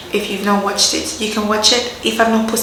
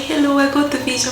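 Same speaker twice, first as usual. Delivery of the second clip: excited news; 5 semitones higher, faster than usual. Retold or imitated. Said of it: "I was like".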